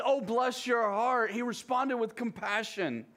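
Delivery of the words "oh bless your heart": mock condescension. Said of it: "Jesus didn't respond to his disciples with".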